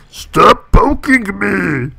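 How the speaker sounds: slow, loud, fed-up peon; exasperated poked game character. Pretend. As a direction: drag it out, annoyed at being clicked. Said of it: "I can do awesome peon voice".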